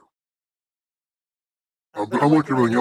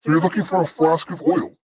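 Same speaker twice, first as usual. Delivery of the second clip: shopkeeper; 8 semitones higher than usual. Acted. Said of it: "as he finishes up with the one guy, uh, uh, he says".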